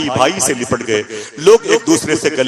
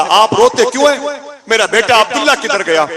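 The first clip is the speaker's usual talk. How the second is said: anguished cry; 10 semitones higher, 5 dB louder than usual. Acted. Grandfather asks why they weep.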